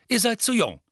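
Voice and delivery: hohe, laute, strenge Mutterstimme; strenge Mutter. A narrator's reading. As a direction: ein scharfes Verbot der Mutter. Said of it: "sagte Misses Weasley". (Mutter verbietet den Kindern streng, hoch und laut)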